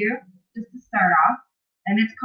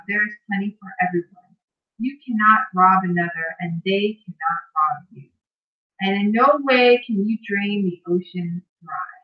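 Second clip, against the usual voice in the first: guided visualization reading. Acted. Host reads a bedtime visualization to live viewers, measured guided-meditation delivery. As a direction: lead listeners through it phrase by phrase, unhurried.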